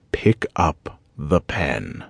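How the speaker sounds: very slow, each word spaced out; drawn-out, menacing command; slow repeated order. A narrator's reading. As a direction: lay out each word like a final warning. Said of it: "please don't make me repeat myself".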